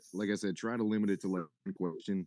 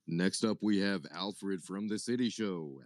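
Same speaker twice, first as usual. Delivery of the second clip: announcer voice; slower than usual. Pretend. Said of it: "I gotta get my announcer voice on".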